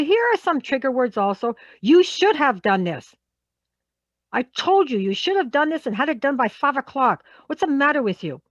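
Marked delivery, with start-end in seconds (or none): 1.8-8.4 acted telling-off, pressing on the blame; angry scolding. Boss scolding over a missed five o'clock deadline, angry. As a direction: scold them with a raised voice. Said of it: "come across as being angry".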